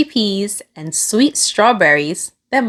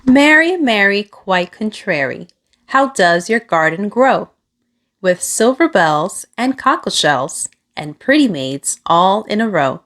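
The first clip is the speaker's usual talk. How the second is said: nursery rhyme. Acted. Reading a nursery rhyme aloud to a child, sing-song. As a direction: recite the rhyme to a child like a little chant.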